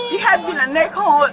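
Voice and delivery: real tearful outburst; shouting through tears in distress; a mother tells police of the fight, crying and shouting. Real, not acted.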